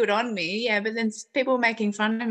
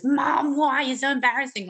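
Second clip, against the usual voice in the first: put-on whiny kid; 6 semitones higher than usual. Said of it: "a kid looks up at their mum".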